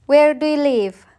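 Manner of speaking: whispered "Where do you live?" with no voice; secretive whispered question. Shown as a demonstration. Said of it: "Listen and practice".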